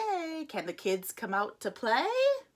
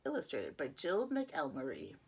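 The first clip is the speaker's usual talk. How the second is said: whisper; 3 semitones lower, 6 dB quieter than usual. Acted. Reading title to child.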